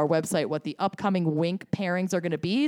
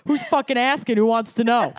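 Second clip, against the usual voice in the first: mock shout; 3 semitones higher, 4 dB louder than usual. Mock tough guy outburst.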